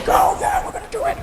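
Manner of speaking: high yelled swim-meet cheer; mock screaming cheer. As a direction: cheer like a muscly teammate screaming. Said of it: "really muscly people screaming at each other".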